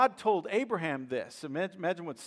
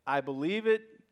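believing laugh; 4 semitones higher, 4 dB louder than usual. Pretend. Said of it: "One laughter says".

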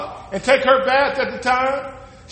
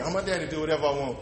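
spoiled princess; 9 semitones lower, 13 dB quieter, faster than usual. Retold or imitated. Spoiled daughter voiced.

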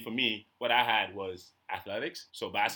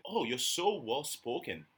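slow, drawn-out patronizing compliment; imitating a stranger's backhanded praise; mock condescending praise; 2 semitones higher, 3 dB quieter, slower than usual. Mocking what strangers say to him, drawn out and patronizing. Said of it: "one of the most annoying things you can say".

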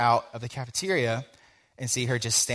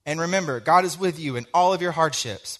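loud, high-pitched mock preacher's send-off; blanket sermon closing; 7 semitones higher, 7 dB louder than usual. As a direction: proclaim it like a stock sermon ending. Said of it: "didn't want to just give a straight up, like".

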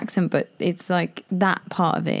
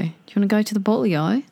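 higher Australian invitation; attempted Australian accent; 4 semitones higher than usual. Inviting the friend for a drink, mock Australian accent. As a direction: play an Australian asking someone out. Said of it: "do it in the Australian accent".

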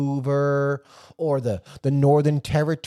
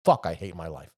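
lower, soft mock despair; mock self-pity; 10 semitones lower, 7 dB quieter than usual. Man fooled by a fake woman, mock despairing mutter. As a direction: groan it out in embarrassed self-pity. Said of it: "you were like".

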